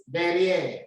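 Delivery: "derrière" with an open è; read aloud. Shown as a demonstration. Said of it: "So you read it".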